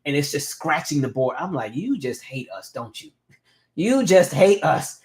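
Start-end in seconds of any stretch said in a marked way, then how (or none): 1.7-3.1 under-breath mock complaint, softer; quiet grumble. Muttering at mean chalk teacher. 3.7-5.0 slow, louder, higher drawn-out accusation; exaggerated complaint. Repeating complaint at mean teacher.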